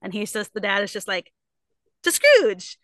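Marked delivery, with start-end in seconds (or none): 2.0-2.8 very high, strained imitation of dad; mock pleading toast. Dad insists on toasting his boss, mock pleading.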